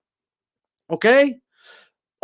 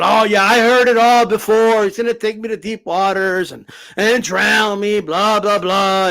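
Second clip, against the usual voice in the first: mocking dismissive. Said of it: "Tony kept mocking it".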